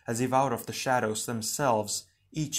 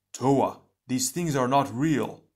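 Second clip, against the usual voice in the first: raised voice rallying comrades; mildly urgent, louder address; urgent call; 2 semitones higher, 4 dB louder, slower than usual. Acted. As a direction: call out a firm warning. Comrade calls out to team.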